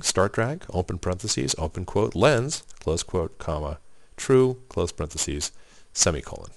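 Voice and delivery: reading out the code; slow, spelling out each symbol; dictating. Shown as a demonstration. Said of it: "that's the full script that we're using".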